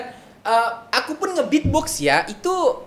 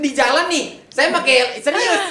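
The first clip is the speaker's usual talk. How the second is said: laughing; 5 semitones higher than usual. Real, not acted. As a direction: laugh through the words. Laughing, higher and louder.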